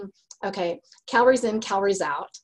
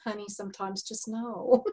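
soft, quiet mock letdown; gentle husband; 6 dB quieter than usual. Husband breaking it to optimistic wife, gently resigned. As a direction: imitate a patient husband, softly. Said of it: "he's like".

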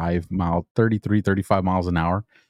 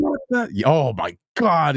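imitated screaming; 7 semitones higher, slower than usual. Vehicle commander to driver after hitting berm, mock screaming. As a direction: act out a panicked commander screaming. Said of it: "It was, like, just screaming".

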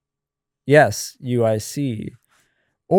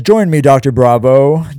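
calling out; 7 dB louder than usual. Acted. Chris calling out in story.

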